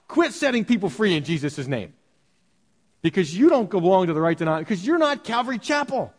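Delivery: mildly hammed-up telling-off, pitch climbing; mock outrage rising to a high finish; mock indignant scolding. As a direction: act out a self-righteous rebuke. Mocking disciples scolding an outsider.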